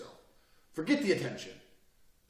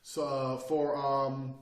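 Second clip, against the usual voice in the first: mock hesitant rambling; 2 semitones lower, much slower than usual. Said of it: "I sit here and go".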